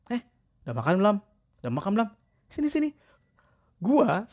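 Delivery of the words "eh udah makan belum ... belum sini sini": much higher coaxing of a cat; high cat talk. Retold or imitated. Older male friend coaxing a cat in public, high and sweet. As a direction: ask the cat if it has eaten, sweetly.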